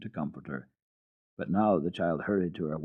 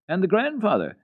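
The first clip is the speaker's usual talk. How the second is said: put-on high, louder child's question; girl asking; 12 semitones higher, 5 dB louder than usual. A narrator's reading. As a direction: Heidi presses the goat boy.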